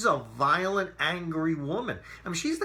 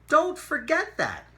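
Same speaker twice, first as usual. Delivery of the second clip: higher, louder, slow and pointed; emphatic warning; 13 semitones higher, 6 dB louder than usual. Real, not acted. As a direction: drive it home to the viewers.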